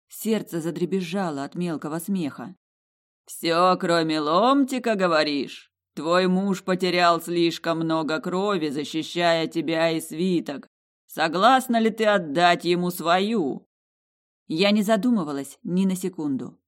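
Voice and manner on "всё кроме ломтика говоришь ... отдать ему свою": slow, loud voice of an ancient jewel; slow booming heart. Acted. The Heart of the Fjords answering the heroine, slow loud booming voice. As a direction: speak slowly like a vast living gem.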